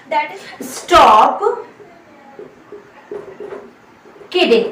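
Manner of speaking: drawn-out, slow teacher model; slow model phrase. Shown as a demonstration. Teacher modelling a phrase slowly for students. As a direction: stretch it out slowly. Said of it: "भैया मजाक मत उड़ाओ हमारा".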